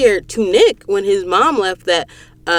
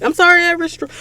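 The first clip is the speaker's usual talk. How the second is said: badly faked Southern apology; failed Southern accent; 11 semitones higher, faster than usual. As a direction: attempt a Southern accent and break off. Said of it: "I can't do a Southern accent".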